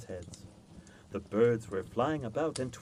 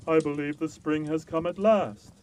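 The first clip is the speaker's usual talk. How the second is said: louder, rising with joy; a touch of excited giant; hopeful giant; 4 semitones higher, 8 dB louder than usual. A narrator's reading. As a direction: let the giant's hope break through.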